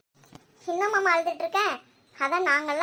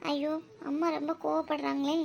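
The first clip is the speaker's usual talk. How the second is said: softer muttered worry to herself; worried aside; 6 dB quieter than usual. Acted. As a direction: say it under your breath, worried. Worried aside about angry mother. (மெல்லிய கவலைக் குரல்)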